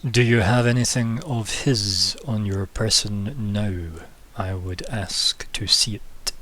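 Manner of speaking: slow, hushed royal demand; slow, stern king voice. Acted. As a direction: ask slowly like a cold king. King speaks to party.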